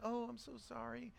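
soft, low mock-sympathetic pastor voice; meek, mild pastor. Mocking how people expect pastors to console someone, meek and mild. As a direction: imitate a meek pastor, hushed and sinking low. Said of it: "pastors are meek and mild".

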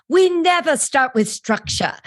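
a bad British accent quoting the actress; terrible accent. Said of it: "excuse my terrible accent".

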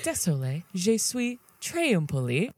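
performed French on demand; French accent on request. Pretend. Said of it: "Say, say, say it".

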